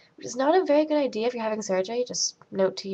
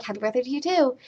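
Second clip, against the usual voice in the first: mildly raised, imitated polite return greeting; polite reply; 4 semitones higher, faster than usual. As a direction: echo the greeting, less gushing. Her own polite reply to lady.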